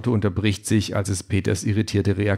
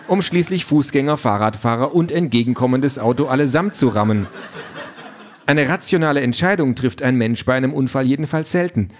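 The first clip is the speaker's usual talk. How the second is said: slightly raised, keen chatty voice; eager talking car; 5 semitones higher than usual. Acted. Car pesters reluctant Peter with topics, lightly eager voice. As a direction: push the small talk a bit too keenly.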